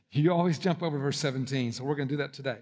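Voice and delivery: dry fake announcement; deadpan setup before the punchline; deadpan joke. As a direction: say it straight-faced, as if you mean it. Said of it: "No, I'm kidding".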